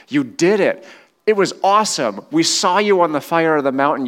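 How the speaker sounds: high, loud, fast joyful praise; excited praise. Acted. Preacher voicing Israel's joy, excited and loud. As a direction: cheer God on like the thrilled crowd.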